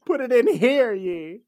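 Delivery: mock town crier. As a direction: call it out like a herald.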